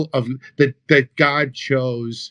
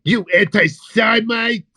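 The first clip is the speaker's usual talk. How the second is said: mock outrage; 4 semitones higher than usual. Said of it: "Oh, we bust balls".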